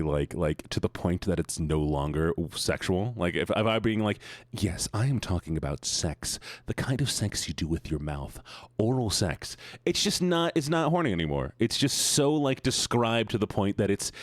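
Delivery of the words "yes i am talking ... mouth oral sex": over-explicit lecturing.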